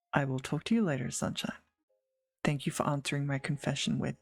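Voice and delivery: a hint of a dry, low reaper; reserved Grim Reaper. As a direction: say goodbye as a low-voiced reaper.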